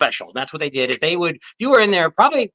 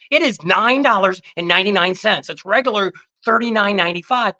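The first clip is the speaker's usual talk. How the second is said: mock salesman pitch; 5 semitones higher than usual. Buddy plays Kmart TV salesman.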